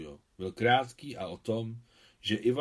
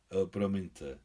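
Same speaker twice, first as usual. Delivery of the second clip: understated sheepish apology; embarrassed; 2 semitones lower, slower than usual. Acted. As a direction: apologize awkwardly, a little subdued. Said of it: "rozpačitě se zachmuřil Adam".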